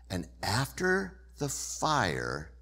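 breathy whispered narration; gentle whisper. Shown as a demonstration. Preacher whispering God's gentle arrival to the congregation. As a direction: whisper it as softly as the breeze. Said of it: "the sound of a gentle whisper".

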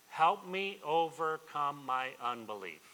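loud, slow cry for help, each word pressed; impassioned plea. Retold or imitated. Father begging Jesus in a preacher's retelling, impassioned plea. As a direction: plead at full voice, word by word.

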